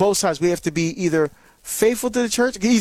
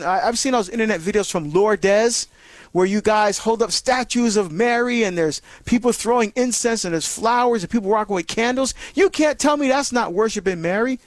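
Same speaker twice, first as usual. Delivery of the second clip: hostile questioner; 2 semitones higher than usual. Retold or imitated. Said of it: "questions may be hostile".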